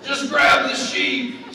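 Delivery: high, loud, slow shout through a laugh; cowboy yelling. Retold or imitated. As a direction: holler it like a fed-up cowboy. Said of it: "yelling at me".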